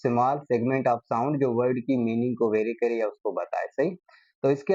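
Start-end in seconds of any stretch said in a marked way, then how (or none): 0.1-1.4 very slow, word by word for the notes; slow dictation. Shown as a demonstration. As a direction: dictate it slowly for students to write. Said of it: "क्या हो?". (धीरे-धीरे लिखवाते हुए)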